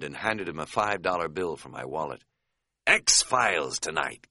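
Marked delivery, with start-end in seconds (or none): 2.9-4.3 happy. A narrator's reading. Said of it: "Katz said happily, very, very happily".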